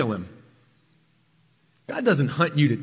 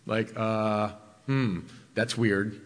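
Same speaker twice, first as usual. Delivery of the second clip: puzzled Saul; 6 semitones lower, 5 dB quieter, slower than usual. Retold or imitated.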